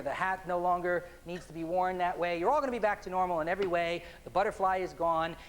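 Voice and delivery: measured, deliberate hypnotist voice; hypnotic suggestion. Acted. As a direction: plant the suggestion firmly.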